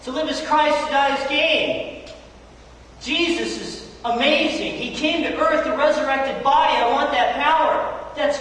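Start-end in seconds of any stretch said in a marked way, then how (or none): 0.0-2.1 eager prisoner Paul. Retold or imitated. Preacher voicing Paul in a Roman prison, eager and slow. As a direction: savor each word like a man who can't wait to die. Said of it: "He's sitting there going".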